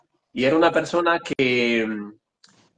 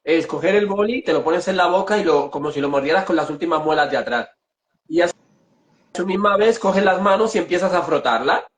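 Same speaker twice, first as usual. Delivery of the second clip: talking with a pen clamped in the back teeth; 3 semitones higher than usual. Shown as a demonstration. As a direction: speak while biting a pen. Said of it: "lo voy a hacer para que lo vean".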